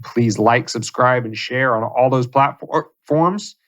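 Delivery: words broken by hiccups; stumbling through a hiccup. Real, not acted. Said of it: "I'm in rare form tonight".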